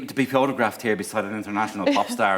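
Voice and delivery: humble politician, lightly voiced; imitacja Bertiego Aherna. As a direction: play the modest, chuffed leader. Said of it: "we imagined that Bertie was too cute".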